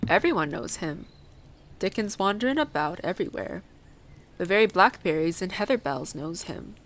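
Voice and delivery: a hint of country dialect; lightly voiced old Yorkshire gardener. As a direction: lightly play the moor man explaining.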